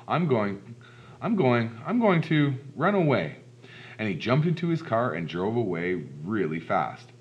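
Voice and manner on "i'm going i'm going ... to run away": halting repeats that climb higher and louder; mounting panic. Acted. Policeman facing Lance's scary face, bravado breaking into panic. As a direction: build in stammering starts toward mock panic.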